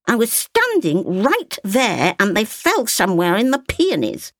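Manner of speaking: a hint of an old woman explaining; lightly voiced grandmother. A narrator's reading. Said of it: "said her grandmother".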